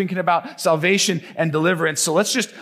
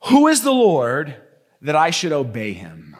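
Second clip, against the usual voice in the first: defiant Pharaoh; 2 semitones lower than usual. Acted. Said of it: "The question that Pharaoh asks".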